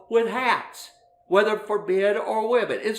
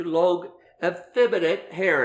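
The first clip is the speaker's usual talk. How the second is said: "effeminate" leaned on, slightly louder; stress on effeminate; 3 dB louder than usual. Shown as a demonstration. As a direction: press the word "effeminate" home. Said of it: "emphasis on the word effeminate".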